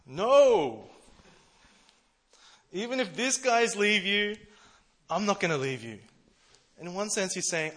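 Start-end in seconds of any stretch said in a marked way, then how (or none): 0.1-6.0 loud, high, insistent Peter protesting; passionate protest. Retold or imitated. Peter vows loudly to Jesus, a passionate high shout. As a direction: shout it like you'd never leave him. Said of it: "a really passionate guy, he says".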